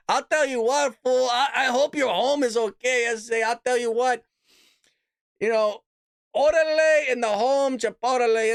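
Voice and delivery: mock her put-on Hispanic accent. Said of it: "starts getting a little Hispanic".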